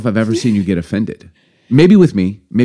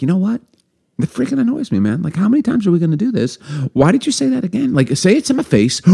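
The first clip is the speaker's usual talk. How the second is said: mock annoyed rant, pitched high; hamming up getting fed up; 10 semitones higher than usual. Retelling to podcast friends, a mock fed-up outburst.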